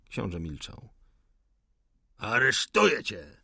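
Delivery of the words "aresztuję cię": loud, harsh arrest shout; furious yell. Acted. Wiesnicyn yells the arrest at the rebel in fury. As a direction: hurl the arrest at him. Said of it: "wrzasnął Wiesnicyn".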